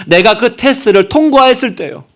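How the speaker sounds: ordinary talk, nothing marked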